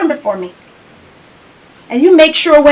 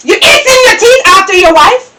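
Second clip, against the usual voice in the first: furious scolding; 2 semitones higher than usual. Acted. Wife scolding husband, furious repeat.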